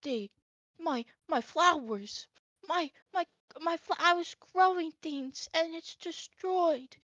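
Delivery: lightly voiced old elf, mildly upset; old elf upset about his flowers. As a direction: fret over ruined flowers like an old man. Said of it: "He goes".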